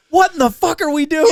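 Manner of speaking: high-pitched mock bewilderment; imitated incredulous wail; mimicked exasperation. Co-host mimics the wife's meltdown.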